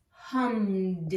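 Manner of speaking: "hummed" with the ed said as D; voiced D ending. Shown as a demonstration. Teacher demonstrating past tense endings, "hummed" ending in D. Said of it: "It sounds like a D".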